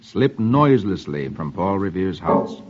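measured comic-strip reading; old-time radio storyteller; story narration. A narrator's reading. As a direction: read the story out to a child.

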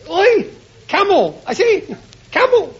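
high calls across the room; calling out. Acted. Calling out to his wife.

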